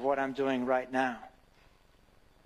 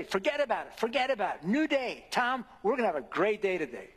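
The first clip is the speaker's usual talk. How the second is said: encouraging Jesus; 4 semitones higher, faster than usual. Retold or imitated. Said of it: "Jesus ... says".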